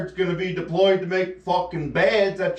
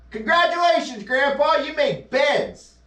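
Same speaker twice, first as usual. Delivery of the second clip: sarcastic; 9 semitones higher than usual. Pretend. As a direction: congratulate him with dripping sarcasm.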